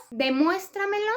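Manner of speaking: teacher's example "demuéstramelo", stressed fourth syllable from the end; stress on MUÉS. Shown as a demonstration. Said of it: "que lleva acento en la E".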